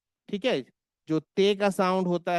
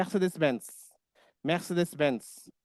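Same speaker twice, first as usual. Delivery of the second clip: put-on German accent; much slower than usual. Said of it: "they were saying".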